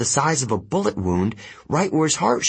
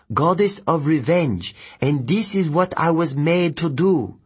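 higher, bitter confession; bitter young demigod; 5 semitones higher than usual. Acted. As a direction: justify the betrayal to a former ally. Voices Ethan explaining his revenge.

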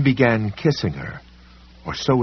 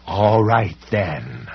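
snarling; much slower than usual. Acted. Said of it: "the library cop snarled".

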